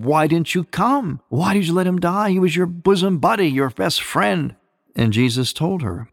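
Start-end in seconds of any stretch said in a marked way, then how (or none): 0.0-4.5 mildly aggrieved, higher-pitched questioning; retold reproach. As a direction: imitate the sisters pressing him for an answer, rising in pitch. Sisters reproach Jesus, retold.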